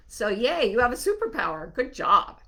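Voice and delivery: cheering. Real, not acted. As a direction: cheer them on like a proud friend. Cheering the listener's superpower.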